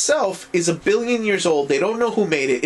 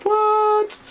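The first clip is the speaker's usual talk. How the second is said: stunned what. Retold or imitated. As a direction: jolt up into a high shriek of disbelief. Battle turns, stunned reaction.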